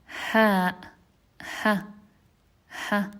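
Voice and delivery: "Ha" breathed from the chest; throat ha. Shown as a demonstration. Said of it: "it happens in the deepest part of the throat".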